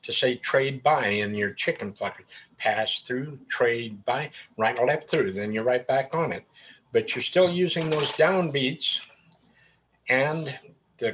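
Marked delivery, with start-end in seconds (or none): 2.6-5.3 square dance call. Shown as a demonstration. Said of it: "That's like saying pass through".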